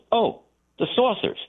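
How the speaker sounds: a hint of a laid-back lawman; casual sheriff. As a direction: toss it off like a sleepy small-town sheriff. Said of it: "He goes".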